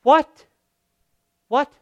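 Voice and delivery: sharp rising what, loud; incredulous, high and loud; mock disbelief. Preacher acting out disbelief, loud rising.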